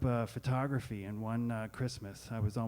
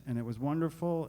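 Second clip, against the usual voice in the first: ordinary talk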